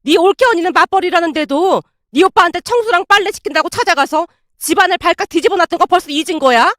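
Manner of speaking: indignant, relentless telling-off; sharp rebuke. Acted. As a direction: lay into a daughter crossly. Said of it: "아내에게 쏘아붙이고 있었고".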